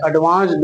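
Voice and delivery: एडवांस्ड with a D ending; wrong pronunciation. Shown as a demonstration. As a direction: put a voiced D at the end of एडवांस्ड. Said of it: "नहीं". (गलत उच्चारण, एडवांस्ड में 'ड')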